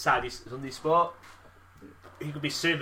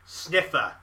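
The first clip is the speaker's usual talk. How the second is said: loud, higher, slow parroted shout; mock yell; 5 semitones higher, 6 dB louder, much slower than usual. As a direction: holler it slowly, hamming it up. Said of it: "I yelled".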